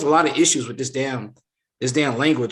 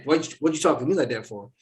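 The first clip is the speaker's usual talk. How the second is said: mock aggressive; faster than usual. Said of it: "Why are you aggressive saying".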